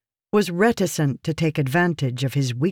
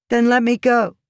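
high, louder, forceful challenge; challenging; 8 semitones higher, 5 dB louder than usual. A narrator's reading. Woman demanding her protector release her, challenging. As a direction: throw it at him as a dare. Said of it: "she challenged".

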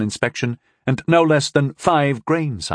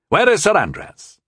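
high, louder, slow demand; a stern boy demanding, raised voice; 9 semitones higher, 3 dB louder than usual. A narrator's reading. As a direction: insist on an answer. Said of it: "he demanded".

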